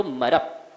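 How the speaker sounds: मरप with weight before the joined p; accented syllable. Shown as a demonstration. Teacher showing where the accent falls, accented syllable. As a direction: land on the end of मरप, closing on p. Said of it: "यहाँ पर स्वराघात होता है".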